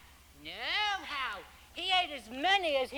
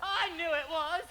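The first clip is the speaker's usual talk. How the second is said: crying; 2 semitones higher than usual. Acted. Upset over broken rattle.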